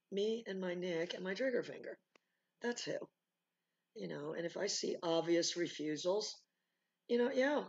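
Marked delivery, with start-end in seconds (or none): 0.1-3.0 softer, matter-of-fact retort; toned-down comeback. Acted. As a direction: say it back quietly to the challenger.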